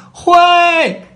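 short, high, loud answer; shouted reply. A narrator's reading. Alice shouting her answer back to the Queen, loud. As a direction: shout it back across the field. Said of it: "喊了回去".

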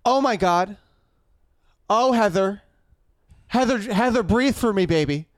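hammed-up concern with long pauses; mock phone drama. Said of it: "He takes a phone call".

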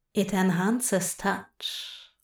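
slow, soft seductive murmur. Acted. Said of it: "Nox murmured seductively".

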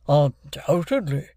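slow, drawn-out pompous voice; Wopsle. A narrator's reading. Wopsle confirms to the stranger, slow and pompous. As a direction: stretch the word with dignity.

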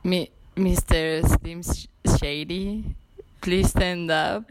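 slow, drawn-out rap hook voice; a hint of a famous rapper, dragged slow; rapper impression. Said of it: "No sé cómo dicen eso".

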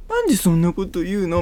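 high-pitched wounded partner; mock hurt protest. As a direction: lightly imitate someone taking it personally. Voicing an upset partner's protest.

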